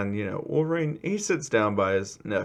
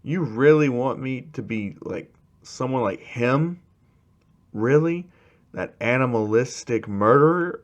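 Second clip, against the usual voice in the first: mildly indignant, incredulous questioning; indignant outburst; 3 semitones higher, 3 dB louder than usual. Acted. Student pops off at being compared to him, indignant. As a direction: push back in scornful disbelief. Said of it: "Bako pops off like".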